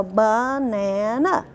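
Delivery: "banana" split into ba-na-na, slow; syllable-by-syllable banana. Shown as a demonstration. Teacher demonstrating syllables to the class, slow and chopped. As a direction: beat out "banana" one syllable at a time. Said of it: "let's try it".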